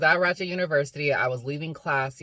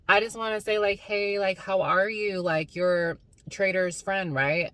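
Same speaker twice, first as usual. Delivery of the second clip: higher, overly nice imitation; mock sweet mom voice; 5 semitones higher than usual. Imitating the rude mom suddenly being friendly, higher and sugary. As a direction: play the fake-friendly mom. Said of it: "she's like".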